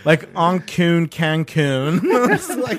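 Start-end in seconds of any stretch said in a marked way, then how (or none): 0.3-2.0 slow Armenian accent with a laugh. Shown as a demonstration. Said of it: "You have to say it with the Armenian accent".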